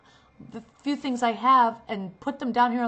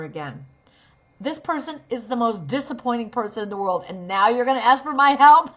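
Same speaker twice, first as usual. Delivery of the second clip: fed-up, building to loud; the character's thoughts about a disappointing person; resentful inner voice; 4 dB louder than usual. Shown as a demonstration. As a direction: vent it all, rising to loud. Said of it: "You're thinking".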